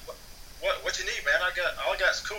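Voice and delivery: mildly shocked. Retold or imitated. Street guy answering an odd cigarette request, mildly shocked. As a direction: stumble into it, a touch startled. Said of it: "they're kinda shocked".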